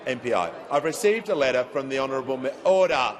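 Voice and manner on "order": shouting order. Real, not acted. Speaker calling chamber to order.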